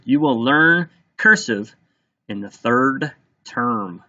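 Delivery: a measured teacher's dictation, pausing between words; slow dictation. Shown as a demonstration. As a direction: dictate slowly, phrase by phrase, with clear gaps. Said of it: "that I'll repeat a numerous times".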